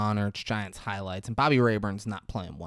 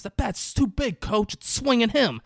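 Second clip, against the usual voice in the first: high, nasal-free whining complaint, much higher; mock whiny complaint; 12 semitones higher, 3 dB louder than usual. Gil complaining to the coach about the bat, high and whiny. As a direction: complain to the coach like it's unfair. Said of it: "and he goes".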